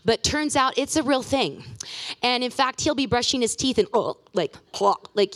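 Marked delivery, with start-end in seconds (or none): 3.9-4.2 short mock retch sound; quick imitation gag mid-sentence; imitated gag. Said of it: "he has this gag reflex". 4.8-5.0 mimicked retch, cut short; mock a sudden gag reflex; brief pretend gag; imitated gag. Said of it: "he just reflexes".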